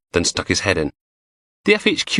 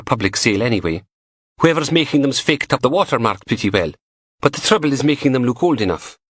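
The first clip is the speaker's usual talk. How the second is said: higher teasing female voice; young woman voice; 6 semitones higher than usual. A narrator's reading. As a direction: play the cheeky lab tech, higher. Narrator voices Samantha.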